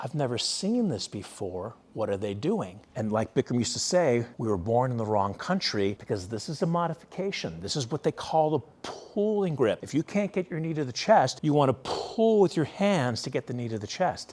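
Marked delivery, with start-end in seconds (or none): 0.0-2.8 hushed half-whispered voice. Retelling what she half-whispered while watching a class: imitating a half-whisper. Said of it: "And she whispers to me".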